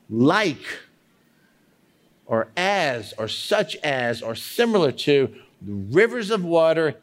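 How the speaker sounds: "Like" set apart by long pauses; emphasizing each word. Shown as a demonstration. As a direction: dwell on "Like", then weigh each alternative. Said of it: "stop and emphasize each word".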